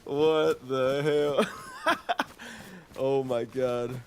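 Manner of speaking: slow, loud, high disbelief; amazed. Real, not acted. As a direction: stretch it out in shock. Surprised at own voice.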